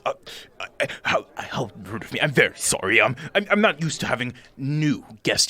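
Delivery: lightly voiced nervous host, fussing and apologetic; a flustered host invites the strangers in; fussy little host. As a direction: ramble politely, tripping over words. Bock's long welcome.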